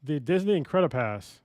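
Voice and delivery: reading that breaks into laughter; trying not to laugh. Real, not acted. Podcaster reading an absurd pass price to co-hosts, trying not to laugh. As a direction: read it out, cracking up partway. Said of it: "can't even read it without laughing".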